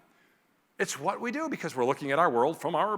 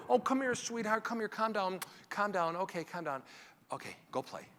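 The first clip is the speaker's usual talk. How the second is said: dismissive soothing; 2 semitones higher, 8 dB quieter than usual. Acted. Parent dismissively soothing child.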